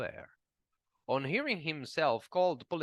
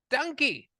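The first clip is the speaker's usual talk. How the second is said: angry insult; 11 semitones higher, 4 dB louder than usual. A narrator's reading. Trading insults in a quarrel.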